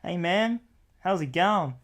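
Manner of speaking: put-on American accent slipping into an Aussie bit; casual American greeting, slightly high. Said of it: "That's American".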